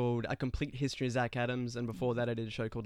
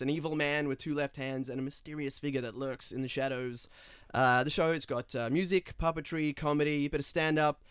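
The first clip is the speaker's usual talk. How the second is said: a lightly put-on Australian accent on a lively pitch; Toronto actor faking an Aussie accent; fake Aussie accent. Actor pitching his show in a practiced Aussie accent. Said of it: "And you have a fake, uh, a-, accent".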